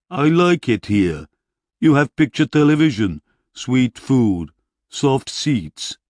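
a big warrior listing small comforts happily; content barbarian. A narrator's reading. Barbarian hero voiced by narrator.

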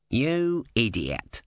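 slow, drawn-out scream at no great volume; narrator's held-back scream of abuse; mock scream. A narrator's reading. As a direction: stretch each insult out in outrage. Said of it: "screamed Om".

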